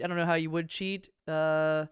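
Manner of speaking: ordinary talk, nothing marked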